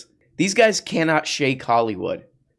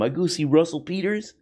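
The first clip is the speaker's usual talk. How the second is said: put-on Indian accent; 4 semitones higher than usual. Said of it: "he's do the Indian impression".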